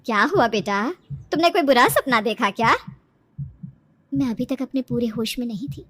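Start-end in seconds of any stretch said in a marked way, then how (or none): 0.1-2.8 lightly voiced worried mother; concerned mother. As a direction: ask your child with motherly concern. Mother asks about bad dream. (चिंतित माँ की आवाज)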